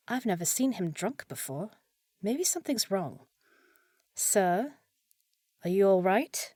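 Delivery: normal talking voice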